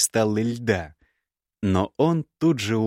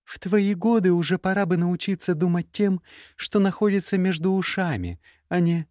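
put-on young woman's voice pitched higher, cool and cutting; higher, cool scornful young woman; Gerda's voice; 9 semitones higher than usual. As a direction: play the proud, scornful ex-bride. Gerda continues.

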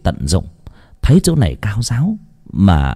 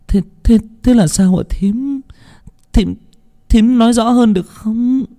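puzzled stammer; 13 semitones higher than usual. A narrator's reading. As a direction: ask haltingly, baffled and pleading. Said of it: "Hiền ngạc nhiên, cô hỏi".

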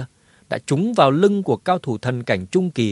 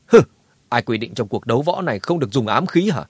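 cold scoff. Acted. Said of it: "hư lạnh đáp trả".

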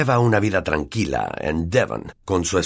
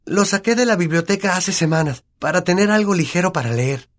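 Hermione's voice; 11 semitones higher than usual. Acted. Hermione explains book.

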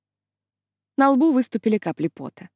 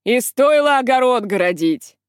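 heckling shout; 5 dB louder than usual. Acted. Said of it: "крикнул чей-то голос".

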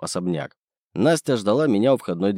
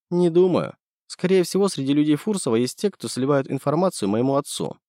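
put-on lightly raised girl's voice for Nastya; young woman voice; 6 semitones higher than usual. Nastya telling Andrey about Fursov, lightly higher female voice.

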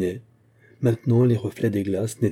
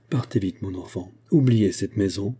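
tender stammer. Acted. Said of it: "Dans une tendresse immense, il balbutia".

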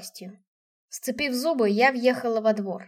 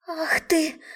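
yelled; 5 semitones higher than usual. A narrator's reading. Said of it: "заорала тётушка".

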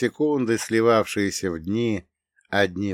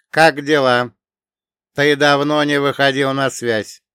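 echoing ethereal energy being; 6 semitones higher, 8 dB louder than usual. Acted. AI character voiced in story.

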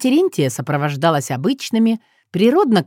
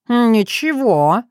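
dignified; 5 semitones higher, much slower than usual. Acted. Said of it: "с превеликим достоинством отозвался".

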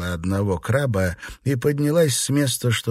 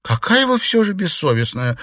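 a raised mock-indignant cry; higher, playful mock outrage; mild cry; 10 semitones higher, 3 dB louder than usual. A narrator's reading. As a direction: exclaim in playful outrage, pitched high. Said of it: "вскричала Юань-Ян".

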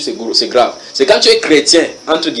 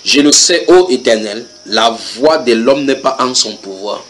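solemn scripture reading, slow; slower than usual. Shown as a demonstration. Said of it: "regardez ce que la Bible déclare".

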